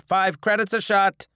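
high, loud bartender's call; announcing a price. Acted. Bar owner naming his price to drinkers, loud and firm. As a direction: state the price loudly, no haggling.

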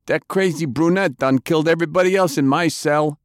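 high-pitched, pleading confession; desperate prisoner. A narrator's reading. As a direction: spill it all in a high, panicky voice. Voices prisoner confessing under torture.

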